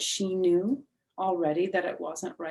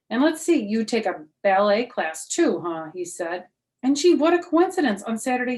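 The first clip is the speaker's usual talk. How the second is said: much higher, louder mock amazement; sarcastic teacher; 5 semitones higher, 9 dB louder than usual. Teacher sarcastically listing copied details to Junie B, high and loud. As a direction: pile on the fake wonder.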